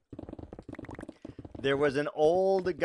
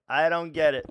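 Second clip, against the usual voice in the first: higher, louder, GET stressed; loud baffled exclamation; louder frustrated repeat; 4 semitones higher, 7 dB louder than usual. Real, not acted. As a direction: throw up your hands and say it.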